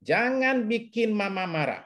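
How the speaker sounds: put-on slow, stern "Jangan bikin mama marah" like a mother warning her child; mock scolding mother. Counselor imitating a parent warning a child, slow mock stern. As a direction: lightly play a parent scolding a kid, slowly. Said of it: "ngomong sama anak gini".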